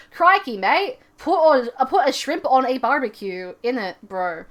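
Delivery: put-on American accent doing Aussie phrases. Shown as a demonstration. Imagined talent show act, mock American accent. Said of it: "an American accent".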